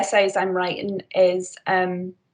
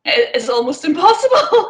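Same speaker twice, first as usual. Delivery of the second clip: laughing; 7 semitones higher, 6 dB louder than usual. Real, not acted. Laughing at the mask struggle.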